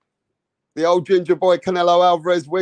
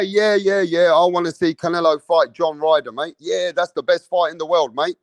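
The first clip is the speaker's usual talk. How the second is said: mock British fan quote. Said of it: "I'll be a hypocrite. If I say".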